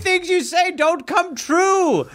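a hint of a prim colonial lady; Martha Washington. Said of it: "it's me, Martha Washington".

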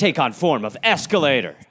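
loud, emphatic mock transformation command; punched-up playful proclamation; mock incantation. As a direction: call it out like a cartoon spell. Mock superhero transformation call.

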